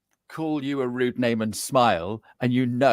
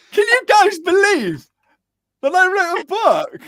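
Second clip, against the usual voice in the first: higher, laughing through the words; laughing disbelief; 7 dB louder than usual. Real, not acted. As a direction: laugh while you marvel at it. Laughing disbelief about his book.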